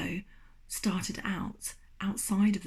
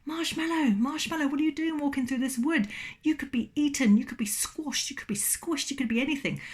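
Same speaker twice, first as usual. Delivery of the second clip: worried owl; 7 semitones higher than usual. Acted. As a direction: warn like an anxious old owl. Owl character warns marshmallow.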